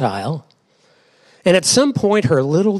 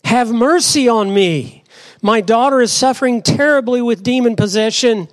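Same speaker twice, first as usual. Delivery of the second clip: higher-pitched, earnest plea; a mother pleading, lightly acted; desperate plea; 5 semitones higher than usual. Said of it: "She was desperate".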